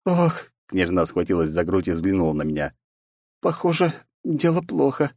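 fading princess; weak princess. Acted. Princess weakening.

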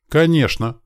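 high mocking cheerful reply; smiling. A narrator's reading. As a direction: grin at the retreating thug. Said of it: "улыбнулся я". (насмешливо с улыбкой)

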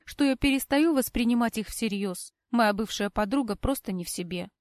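plain reading voice

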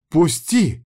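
sharp cry to be let go; exclaimed. A narrator's reading. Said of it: "воскликнула моя начальница". (восклицание)

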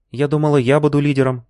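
put-on a hurt young woman's objection; lightly voiced Lina. A narrator's reading. Lina objecting to the boss, put-out.

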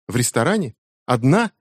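a daughter mocking her mother's alibi; mocking disbelief. A narrator's reading. Becky mocks mother's alibi. (насмешливое недоверие, выше)

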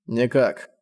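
a bitter, curt reply; a touch of bitterness in one word; bitterly. A narrator's reading. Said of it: "с горечью бросил он".

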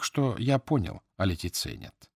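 usual speaking voice

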